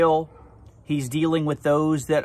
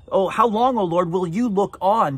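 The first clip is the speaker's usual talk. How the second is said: David crying out; 4 semitones higher than usual. Retold or imitated. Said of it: "David is crying".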